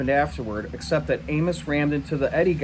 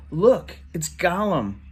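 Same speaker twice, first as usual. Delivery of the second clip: sneering taunt; 4 semitones higher, slower than usual. Acted. Bully taunting the boy.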